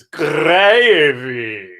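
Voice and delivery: slow, soft southern English "gravy"; own soft southern. Shown as a demonstration. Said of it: "how I really say gravy".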